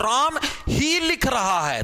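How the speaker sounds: slow phrase with weight on ही; stress on ही. Shown as a demonstration. Teacher showing force, slow stress on ही. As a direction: lean on ही, slowly. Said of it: "ये जो ही word है ये क्या है".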